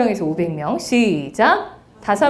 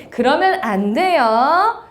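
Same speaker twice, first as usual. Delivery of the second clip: put-on slow, sing-song 그러면 안 돼요 as if to little kids; playful cutesy telling-off; cute, like scolding a toddler; 3 semitones higher, much slower than usual. Shown as a demonstration. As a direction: gently scold a child, drawn out. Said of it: "너무 귀여워요".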